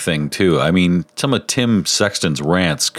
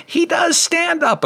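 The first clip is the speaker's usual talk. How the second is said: much higher, slow, hammed-up mock of the tipsy friend; friend's gleeful jab; slower than usual. Friend volunteering him for stand-up, in a high, slow, hammed-up tease. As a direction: stretch it out in a squeaky teasing voice. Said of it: "my idiot friend John goes".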